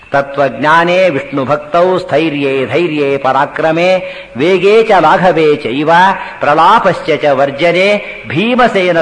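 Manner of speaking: measured shloka recital with drawn-out syllables; Sanskrit verse recitation. Acted. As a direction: recite the verse steadily, stretching the long vowels. (ಶ್ಲೋಕ ಪಠಣದ ಧಾಟಿ)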